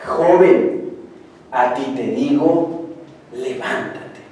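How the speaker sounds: firm, slow call to the dead youth; commanding Jesus. Acted. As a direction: order "levántate" with calm authority. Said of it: "Y dijo, mi Señor Jesucristo".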